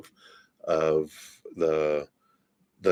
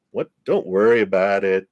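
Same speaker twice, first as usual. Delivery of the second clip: put-on Jersey accent; 5 dB louder than usual. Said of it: "spirit guide from Jersey".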